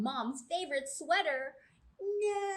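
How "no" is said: higher, louder shocked no; mock dismay. Teacher reading to children cries out in mock dismay. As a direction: cry out in pretend horror.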